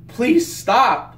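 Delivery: the dying monster begs its attackers to stop, pained; pained plea. Retold or imitated. A pleading cry from the dying creature. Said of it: "him crying was getting to me".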